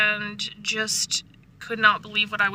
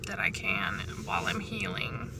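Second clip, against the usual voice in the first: soft whisper trailing off; 14 semitones lower, 10 dB quieter than usual. Real, not acted. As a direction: breathe the words out, barely voiced. Trailing off about healing.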